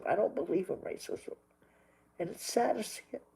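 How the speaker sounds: real sadness, close to crying; tearful. Real, not acted. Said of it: "I'm crying like a little sissy".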